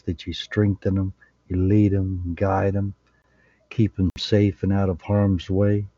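earnest, even-toned prayer voice; measured, reverent prayer with pauses between phrases; closing prayer. Real, not acted. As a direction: lead the group in a humble blessing.

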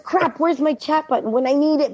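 high, flustered outburst without real volume; mock yelling. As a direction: imitate yelling at the show. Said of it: "I'm, like, yelling. I'm yelling".

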